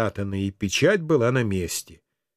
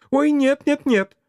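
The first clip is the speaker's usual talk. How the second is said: high, urgent exclamation, mildly raised; alarmed cry; 12 semitones higher, 4 dB louder than usual. A narrator's reading. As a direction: cry out in protest, pitch jumping right up. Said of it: "в один голос закричали они". (испуганный вскрик высоким голосом)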